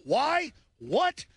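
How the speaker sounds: high, startled why and what; mock baffled police officer; puzzled why. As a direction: act out the police's baffled question. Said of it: "The Dallas police looked at them and said".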